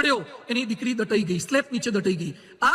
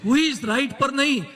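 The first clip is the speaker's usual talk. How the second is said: slow emphatic quote; 4 semitones lower, slower than usual. Shown as a demonstration. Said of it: "slow quoted teaching".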